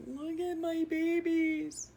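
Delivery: high, slow, tender coo; cooing over babies. Real, not acted. Mother cooing at old photos of her babies, high and slow.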